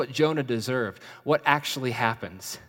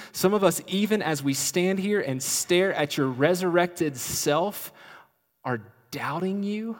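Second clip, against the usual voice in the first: pleading protest; 4 semitones higher than usual. Acted. Disciples voiced protesting to Jesus.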